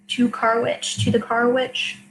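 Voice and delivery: To car which as three separate English words. Shown as a demonstration. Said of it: "three English words in a row".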